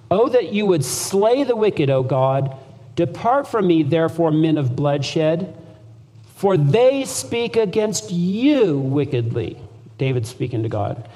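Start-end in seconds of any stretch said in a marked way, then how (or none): 0.1-9.6 emphatic scripture reading. Shown as a demonstration. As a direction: read the psalm with fervent emphasis. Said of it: "emphasize what he's getting at".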